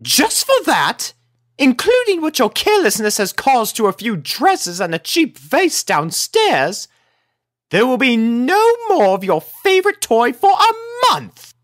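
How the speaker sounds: high loud lady scolding; furious punishment. A narrator's reading. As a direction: hand down the sentence with fury. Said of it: "furious conversation with Opal".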